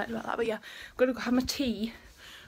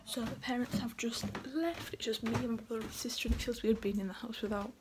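softer half-whisper; hushed; 7 dB quieter than usual. Real, not acted. Vlogger alone at home after parents leave, talking softly. Quiet once parents left.

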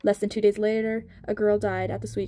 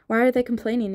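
angry; 3 semitones higher, 4 dB louder than usual. Acted. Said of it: "Nina asked angrily".

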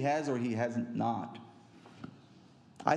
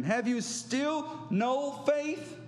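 exhorting; 5 semitones higher than usual. Acted. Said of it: "Jesus exhorts them".

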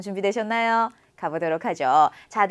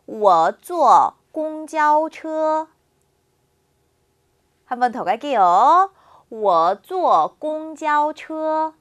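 sentence read very slowly for students to repeat; slow, clear drill sentence for the class; slow model reading; 3 semitones higher, much slower than usual. Shown as a demonstration. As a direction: read it word by word like a language teacher.

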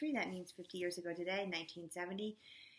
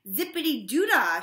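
much louder, higher sing-song cheer; joyful shout; 6 semitones higher, 14 dB louder than usual. A narrator's reading. Missus Drizzle cheers about the elevators, loud and high. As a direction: belt it out like a happy cheer. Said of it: "shouted Missus Drizzle".

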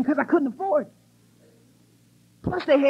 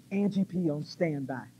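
announcer; 10 semitones lower, 8 dB quieter, slower than usual. Retold or imitated. Retold backstage standby announcement.

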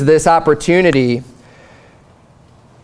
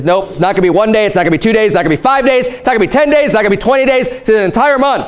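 each count rising higher; escalating mock outrage, higher each count; building emphasis; 4 semitones higher, much faster than usual. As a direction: stack the days, climbing in pitch. God escalating the days.

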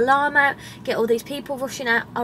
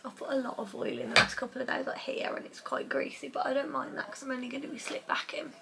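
soft late-night whisper; 3 semitones higher, 11 dB quieter than usual. Real, not acted. Quiet late-night talk with retainers.

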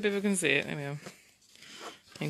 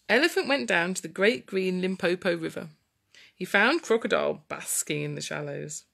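put-on storytelling to children.

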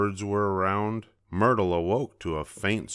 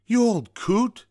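high, loud exploding shout; explosive rage; 6 dB louder than usual. A narrator's reading. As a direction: explode at the old owl. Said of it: "she exploded".

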